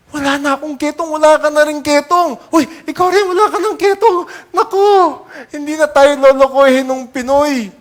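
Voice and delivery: high, loud laughing disbelief; joyful laughing. Pretend. Healed lepers laughing as they find their skin clean. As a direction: burst out laughing with joy.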